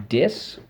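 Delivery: dis said alone as a syllable; syllable drill. Shown as a demonstration. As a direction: say dis as one beat. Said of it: "first syllable".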